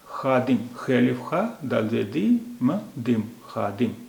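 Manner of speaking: slowly sounding the word out letter by letter; spelling it out. Shown as a demonstration. Teacher to learners, spelling out a word slowly. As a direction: spell खादिम out, then join it up. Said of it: "ऐसे पढ़िए".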